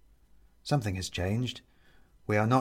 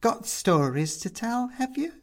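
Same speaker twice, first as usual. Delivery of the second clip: Mum perking up; 12 semitones higher than usual. Acted. Mum asking the young woman, eager and higher. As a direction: lean in keenly.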